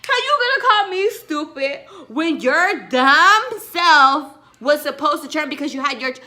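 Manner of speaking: high, loud indignant rant; angry rant. Retold or imitated. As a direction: tell her off hard. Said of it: "Because it's like".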